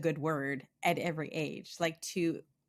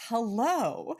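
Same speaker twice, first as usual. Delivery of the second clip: higher-pitched, mock-ecstatic hello; imitating ecstatic greeting; 5 semitones higher than usual. Host imitates village woman greeting her in Togo, ecstatic. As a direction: mimic an overjoyed villager's greeting. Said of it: "ecstatic about whatever".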